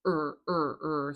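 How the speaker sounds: "er" as short R-coloured vowels; "er" with the R fused into the vowel; weak er sound. Shown as a demonstration. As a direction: repeat "er" as an isolated rhotic schwa. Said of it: "it's a weak".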